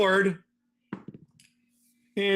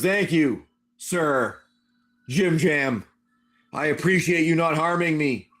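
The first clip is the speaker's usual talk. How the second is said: feminine creature voice; 3 semitones lower than usual. Acted. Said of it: "in its feminine voice".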